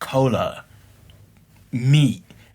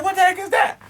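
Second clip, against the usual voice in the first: mock baffled. Mock reading of the E codes.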